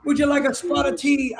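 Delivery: light attempt at an English accent; English tone, half-hearted. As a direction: have a tentative go at an English accent. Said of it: "with the, with the English tone".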